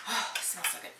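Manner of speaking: sighing, breathy over the scent; savoring a smell. Real, not acted. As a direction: sigh with pleasure at the smell. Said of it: "That was an aggressive smell".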